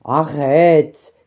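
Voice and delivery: low grunting pig voice; a low piggy stop; pig shout. A narrator's reading. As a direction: bark it like a pig. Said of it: "cria le cochon".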